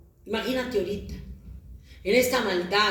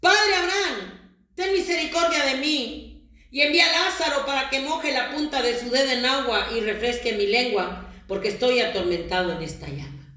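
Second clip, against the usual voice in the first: pleading cry of the rich man; 3 semitones higher than usual. Acted. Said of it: "le gritaba".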